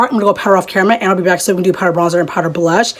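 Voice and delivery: quick, rushed run-through; hurried chatter without a pause; talking too fast. Real, not acted. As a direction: rattle it off a bit too fast. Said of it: "I am talking too fast".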